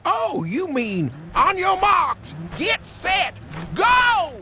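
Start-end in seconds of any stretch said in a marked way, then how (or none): 1.3-4.3 rising race call ending in a shout; race start shout. Acted. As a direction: shout the start like firing the gun.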